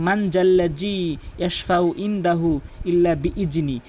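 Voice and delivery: মান জাল্লা জি read with plain n and j sounds; common wrong reading. Shown as a demonstration. Teacher imitating most people, faulty plain-sound reading. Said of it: "এভাবে পড়ে অধিকাংশ লোক".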